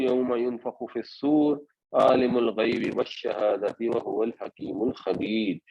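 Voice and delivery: measured Arabic tilawat, a little fast; Quran recitation. Acted. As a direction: recite the verse as in prayer. (قرآن کی تلاوت کا انداز)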